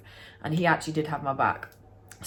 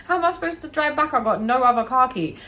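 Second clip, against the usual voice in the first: much higher, frantic retold thought; panicked inner thought; 6 semitones higher, 5 dB louder than usual. Stranded without a car key, she replays her frantic panic.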